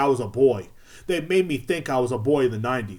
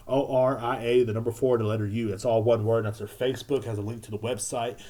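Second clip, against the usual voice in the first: casual ad read; 2 semitones lower, 3 dB quieter than usual. Real, not acted. Host plugging homegirl's business to the fellas, casual ad read. Gives sponsor contact details.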